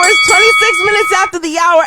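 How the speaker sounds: big radio-style time call; announcer call. Acted. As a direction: boom it out like a radio host.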